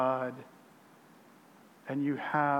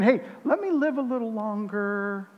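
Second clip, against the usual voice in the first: mock bargaining; 4 semitones higher than usual. What David is not saying to God, mock bargaining. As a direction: pitch God a casual deal, in mock negotiation. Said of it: "David is not bargaining".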